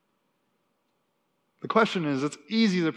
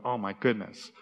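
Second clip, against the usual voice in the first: mock complaining; 4 semitones lower, faster than usual. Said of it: "they're complaining".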